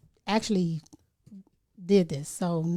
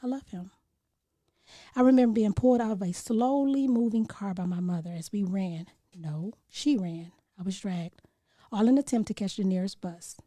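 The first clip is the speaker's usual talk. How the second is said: spoken word poem. Acted. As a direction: recite it like a poem you've never shared before. Recites her own poem.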